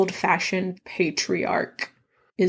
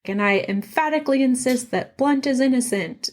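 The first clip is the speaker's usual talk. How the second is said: higher, keen, a touch overeager; eager insistence; 5 semitones higher than usual. Retold or imitated. Shepard reporting to Poirot, eager and high. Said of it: "So Shepard is like".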